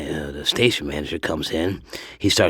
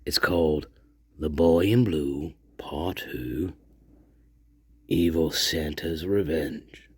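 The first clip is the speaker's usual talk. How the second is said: hushed reading intro. Real, not acted. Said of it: "Here it is".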